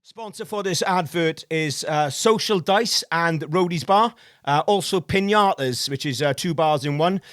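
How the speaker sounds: ad read. Acted. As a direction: sell the venues like a radio ad. Reads a sponsor ad.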